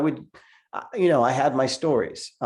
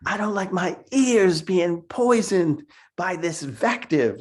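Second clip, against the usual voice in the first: higher, slow booming voice; booming slam poet; 8 semitones higher, slower than usual. Retold or imitated. Man on the bus booms at swearing kids, booming. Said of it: "he said in a very booming voice".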